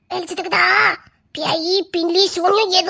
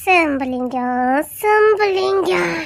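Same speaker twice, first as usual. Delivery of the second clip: eerie drawn-out name; 2 semitones lower, 3 dB quieter, much slower than usual. Acted. Ghost grandmother hearing the family name, slow and eerie. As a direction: stretch the name out like a haunting.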